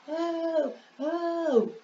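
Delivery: high, soft pleading cry for help; a lightly voiced blind beggar pleading; blind man crying out. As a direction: beg Jesus desperately from afar. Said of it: "E continuou gritando".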